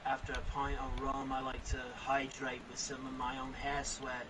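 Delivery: hammed-up pirate captain, low and soft; Jack Sparrow impression. Friends on a call, playing a low pirate. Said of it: "I'm Captain Jack Sparrow".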